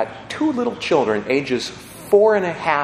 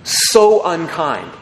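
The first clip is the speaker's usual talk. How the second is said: lightly voiced grandson; 4 semitones higher than usual. Grandson asking his granddad, lightly voiced as a child. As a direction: let a grandson's puzzled question come through lightly. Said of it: "And the grandson says".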